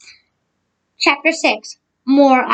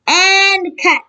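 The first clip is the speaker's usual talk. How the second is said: shout; 6 semitones higher than usual. Acted. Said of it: "shouted Alexia".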